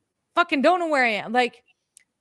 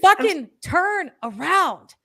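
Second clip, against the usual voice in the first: insistent guides; 8 semitones higher, 6 dB louder, much slower than usual. Retold or imitated. Guides ordering her back.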